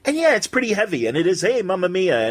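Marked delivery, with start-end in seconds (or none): 1.4-2.2 hammed-up Italian accent, pitched higher. Recalling a sitcom's dialect comedy, hammy Italian accent. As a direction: play the old radio Italian immigrant. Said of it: "doing an Italian accent".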